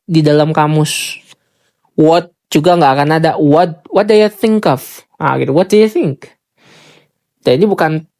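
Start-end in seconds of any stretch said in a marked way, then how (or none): 3.4-5.0 "what do you think of" linked as "wadaya think of"; blurred "do you" said as "daya"; native reduction. Shown as a demonstration. Teacher models native linking. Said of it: "yang dimaksud adalah do you". 5.5-6.3 "What do you think?" linked, "do you" as "daya"; quick connected "wadaya think"; native reduction. Shown as a demonstration. Teacher models native speech. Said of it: "yang dimaksud adalah do you".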